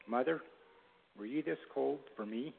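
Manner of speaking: soft words through chattering teeth; shivering, teeth chattering, gently. Acted. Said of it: "through chattering teeth".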